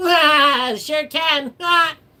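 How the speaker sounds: very high, slow cartoon voice, ah stretched out. Speaker asks if they can do a voice, then does it: SpongeBob voice. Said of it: "Can I do a SpongeBob voice?".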